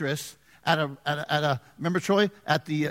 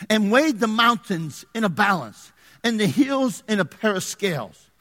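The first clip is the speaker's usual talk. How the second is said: measured, declaimed Bible verses; scripture reading. Acted. Pastor reading verse twelve to the congregation, solemn scripture reading. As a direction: read it out with weight on key words.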